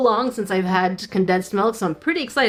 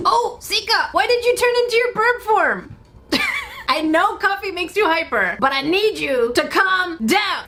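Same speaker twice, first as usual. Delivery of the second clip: high-pitched playful scolding; hammed-up scolding, pitched up, stretching the final plea; mock exasperation; 7 semitones higher than usual. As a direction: plead in exaggerated dismay with a hyper pet. Mock scolding sister turned bird.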